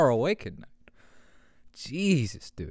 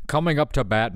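sports announcer; 3 dB louder than usual. Pretend. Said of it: "a sports announcer is trapped".

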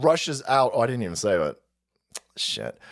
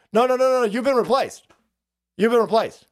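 mock official; 6 semitones higher than usual. Officials telling the man he's been replaced, mocking. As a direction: brush him off smugly.

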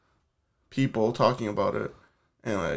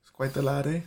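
put-on a light, jokey Canadian accent ending on eh; mock Canadian accent; 2 semitones higher than usual. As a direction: say it like a teasing Canadian. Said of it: "What the fucking accent is that".

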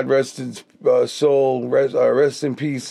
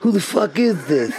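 lightly voiced, gruff mock Tom on the phone; a hint of a confused, annoyed Tom; imitating Tom; 4 semitones higher than usual. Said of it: "imitating his voice so perfectly".

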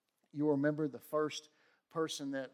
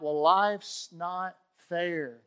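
slow, louder grumbling quote of a complainer; mock complaint; 2 semitones higher, 7 dB louder, much slower than usual. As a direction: drag out "life's not fair" like a sulky protest. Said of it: "When you want to talk about".

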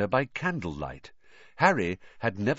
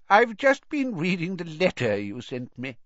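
put-on higher-pitched old man's voice; feeble old headmaster; 6 semitones higher than usual. A narrator's reading. Old headmaster tells the boy about his letter, feeble voice. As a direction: speak as an aged, frail wizard.

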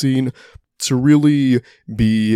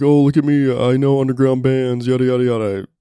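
show-off voice; 3 semitones higher, 3 dB louder than usual. Retold or imitated. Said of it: "that's not me being braggadocious like".

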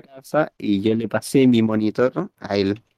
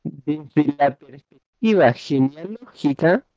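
slow, drawn-out careful reading; slow rereading; 3 semitones higher, slower than usual. Shown as a demonstration. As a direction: read it out slowly, word by word. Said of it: "Volvelo a leer lentamente".

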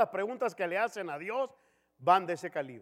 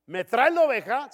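mock stern question; 6 semitones higher, 10 dB louder than usual. God questions the people.

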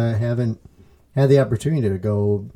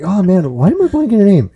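flustered, laughing; 9 semitones higher, 6 dB louder, faster than usual. Retold or imitated. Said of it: "I'm like".

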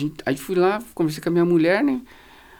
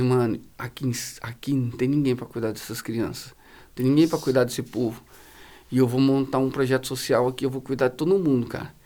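earnest plea; 7 semitones lower, 4 dB quieter than usual. Retold or imitated. Retold earnest plea to seller.

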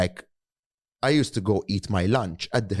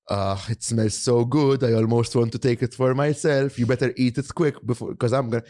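higher, louder cheerful headmaster voice; jolly headmaster; 4 semitones higher, 4 dB louder than usual. Retold or imitated. The speaker imitating the headmaster eyeing his lunch, higher and louder, jovial. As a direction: ham up a greedy, kindly headmaster. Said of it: "he used to be like".

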